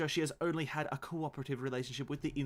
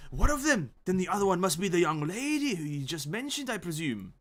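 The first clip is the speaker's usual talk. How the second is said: higher, louder British Doyle voice; Conan Doyle British; 4 semitones higher, 3 dB louder than usual. Acted. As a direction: keep the Doyle accent steady. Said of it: "the only one that's consistent".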